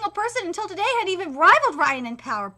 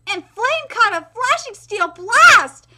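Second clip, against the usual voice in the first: slow, louder attack name; Nico-style technique call; 4 semitones higher, 9 dB louder, slower than usual. Acted. Showing off his Nico style, slow hammy call. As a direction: call the move out grandly. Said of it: "Now watch me in my Nico style".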